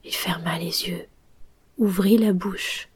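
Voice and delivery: soft, fading storyteller; hushed story narration. A narrator's reading. Narrator tells how Pinocchio loses breath, hushed narration. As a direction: let the tale die away quietly.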